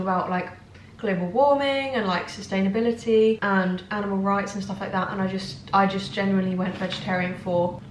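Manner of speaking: talking between bites; chewing while talking. Real, not acted. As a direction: mouth partly full of crisps. Seen 2: holds crisp at mouth, bites it near 2.7, mouth working after.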